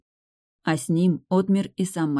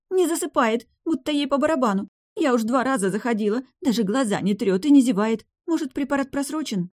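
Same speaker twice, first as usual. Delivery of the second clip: higher voice of the nurse, annoyed; the nurse complaining, pitched up; young woman; 8 semitones higher than usual. A narrator's reading. (молодая медсестра, высоким голосом)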